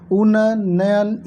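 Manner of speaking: उन्नयन stretched slowly as a wrong spelling with extra syllables; another wrong form. Shown as a demonstration. Teacher to exam students, slowly showing another wrong उन्नयन. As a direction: sound out उन्नयन slowly to show the error. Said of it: "ये भी गलत हो गया".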